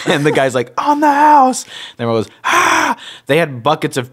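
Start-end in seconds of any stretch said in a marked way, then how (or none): 0.8-1.6 squeaky, loud bartender voice; high hammed-up bartender. 2.4-3.0 squeaky delighted group "ah"; high crowd gasp. Retold or imitated. Crowd reaction voiced.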